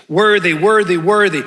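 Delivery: "Worthy, worthy, worthy" in three emphatic beats; repetition for emphasis. Shown as a demonstration. Pastor showing Hebrew repetition to congregation, emphatic "Worthy, worthy, worthy". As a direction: punch each "worthy" equally. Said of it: "That's for emphasis".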